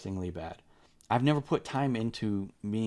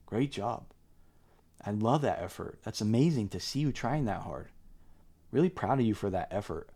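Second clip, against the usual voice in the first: encouraging parent voice. Shown as a demonstration. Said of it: "instead of saying".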